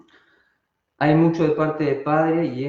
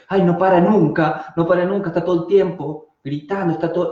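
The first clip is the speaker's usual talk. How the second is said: higher, lightly voiced complaining victim; mild, higher-pitched playing the victim; put-upon mother; 4 semitones higher than usual. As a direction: lightly act out a mother fed up with her child. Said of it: "mujeres que son víctimas de sus hijos".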